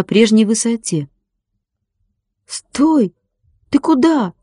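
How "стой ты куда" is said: high-pitched cry, without much extra volume; shouting after someone. A narrator's reading. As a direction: call out urgently after the departing ship. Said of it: "закричал Владик и бросился за кораблём". (кричать вслед, высоким голосом)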